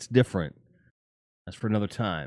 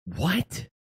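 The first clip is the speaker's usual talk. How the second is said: baffled what; 9 semitones higher than usual. Retold or imitated. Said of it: "they're like".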